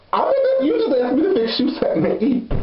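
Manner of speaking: high, fast disbelieving retort; can't believe he asked; incredulous. Retold or imitated.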